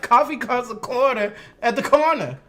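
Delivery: Southern vowels with "uh" endings; own Southern accent. Shown as a demonstration. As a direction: say it as a Southerner would. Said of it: "Shit, I'd be like".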